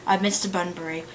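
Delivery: put-on British accent of an English lady in a play. Lady Bracknell lecturing Algernon about Mister Bunbury, British accent. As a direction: read it as a stage monologue in a British accent. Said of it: "about to pull out the British accent".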